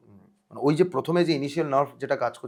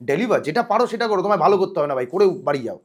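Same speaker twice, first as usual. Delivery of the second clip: higher, louder urging aimed at yourself; retold self pep talk; 4 semitones higher, 5 dB louder than usual. Nervous actor talking to himself before the scene, retold pep talk. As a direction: push yourself to just get it done. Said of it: "নিজেকে নিজের সঙ্গে কথা বলছি".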